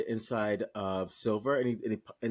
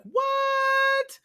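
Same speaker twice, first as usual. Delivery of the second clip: high, loud shocked "What?"; astonished what; 6 dB louder than usual. Retold or imitated. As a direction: shriek it in disbelief. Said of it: "that New York moment of like".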